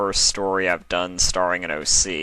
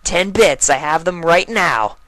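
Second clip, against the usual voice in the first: higher colt voice, firm fall; colt confirming; 10 semitones higher, 6 dB louder than usual. Acted. Colt confirming the bet to his sister, higher and firm. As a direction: settle it flatly.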